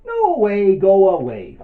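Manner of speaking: high, loud, drawn-out cry; defiant refusal. Acted. Little butterfly to the hungry spider, defiant high shout. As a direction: shoo it off in a big high voice. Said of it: "Can you all say that?".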